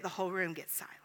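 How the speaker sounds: dropped to a whisper; hushed. A narrator's reading. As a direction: whisper it as the room goes silent. Room falls silent in story.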